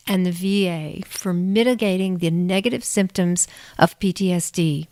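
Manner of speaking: measured, scripted host introduction; podcast intro read. Real, not acted. Host introduces guest researcher to listeners, scripted intro read. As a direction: read it out clearly as a prepared show opening.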